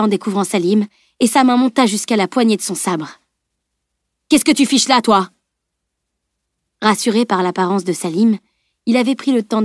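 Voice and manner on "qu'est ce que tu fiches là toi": high-pitched startled demand; surprised, aggressive question; challenging. A narrator's reading. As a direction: challenge an intruder abruptly. Startled mercenary challenges the boy.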